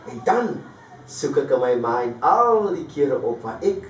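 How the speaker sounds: recited street poem, nostalgic and measured; poem recitation. Acted. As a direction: perform the poem as a spoken-word piece. Recites his Cape Flats poem.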